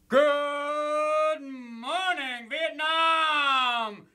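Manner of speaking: drawn-out shouted radio greeting; Good Morning Vietnam DJ. Acted. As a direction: bellow it like a DJ.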